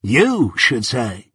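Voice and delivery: "You should say" drawled very slowly, falling on You; surly rival parroting Pip to needle him; mocking echo. A narrator's reading. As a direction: repeat it back in slow contempt. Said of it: "repeated Drummle".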